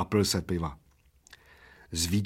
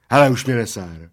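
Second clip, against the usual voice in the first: exclaimed; 6 dB louder than usual. Acted. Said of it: "zvolal Plešatec".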